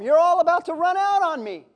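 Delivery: lightly voiced Jesus warning his followers; Jesus warning disciples. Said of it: "he told them".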